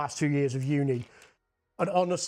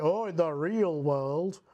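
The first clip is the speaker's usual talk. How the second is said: slow, sarcastic "real world"; parroting the lecturers with scorn; mocking the excuse; slower than usual. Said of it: "with the justification of".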